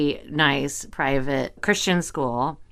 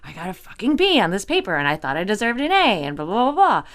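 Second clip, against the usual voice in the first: higher-pitched mild mock rant; retold pissed off; 4 semitones higher, faster than usual. Student venting to parents about a grade, mild mock anger. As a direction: replay a student's indignant gripe. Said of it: "I was fucking pissed".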